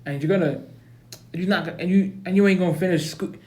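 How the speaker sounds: fast-talking mock African American accent. Principal warns Baby Scrubs he'll fail, African American accent. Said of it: "Time for African American accent now".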